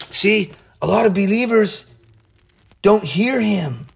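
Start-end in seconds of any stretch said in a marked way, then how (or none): none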